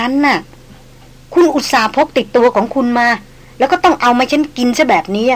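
lightly voiced noblewoman, a touch flustered; Darin pleading. Noblewoman explaining her refusal to the sick hunter, earnest.

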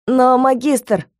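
slow, tentative student objection; a student daring to contradict the master; timid objection. A narrator's reading. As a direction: dare to object, slowly. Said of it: "осмелился возразить".

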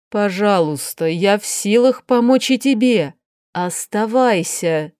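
a lightly voiced tired aristocratic aunt; weary duchess. Duchess to niece Sofi, lightly voiced weary despair. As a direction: speak as the exhausted duchess despairing over her niece.

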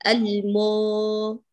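المو with the u held very long; long round u. Shown as a demonstration. Teacher stretching the u of المو for the student. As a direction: draw out the u in المو. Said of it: "أطيلي صوتها".

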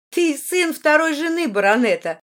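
high, loud, biting put-down; caustic. A narrator's reading. Margarita puts the boastful boy down, caustic. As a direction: cut them down with acid scorn. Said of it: "язвительно заметила Маргарита".

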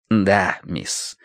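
meek butler. A narrator's reading. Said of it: "улыбнулся покорно".

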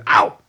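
loud short yelp of pain; smothered ow. A narrator's reading. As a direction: yelp as if pricked. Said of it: "een gesmoorde". (gesmoorde pijnkreet)

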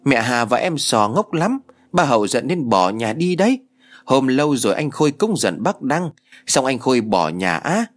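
put-on girl explaining to her mother, in a light child voice; lightly voiced little girl. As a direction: play the know-it-all big sister, lightly. Narrator voices little Hến.

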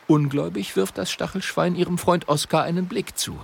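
usual speaking voice

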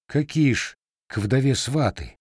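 mildly taken aback, pitch lifted; surprised. A narrator's reading. Matvei questions the widow about matchmakers, surprised. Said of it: "удивился Матвей".

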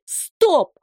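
high loud yell; a sharp, loud, high cry; shouted stop. Acted. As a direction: bark the order at the log. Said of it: "закричать".

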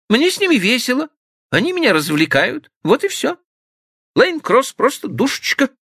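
put-on high, quick girlish voice; carefree young woman. Stephanie brushing off Frank's jealousy, high and quick. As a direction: chatter lightly in a high voice. Stephanie defends her friends.

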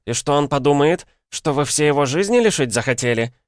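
high, indignant nurse scolding; визгливая отповедь. A narrator's reading. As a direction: take unruly grannies to task, shrieky. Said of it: "завизжала медсестра". (медсестра визгливо отчитывает старух)

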